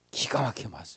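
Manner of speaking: hushed, soft, low whisper.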